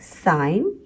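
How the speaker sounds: slow अ, pause, साइन; two separate slow beats, अ and साइन; split into syllables. Shown as a demonstration. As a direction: break it apart as अ - साइन. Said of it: "ये भी दो syllable word है".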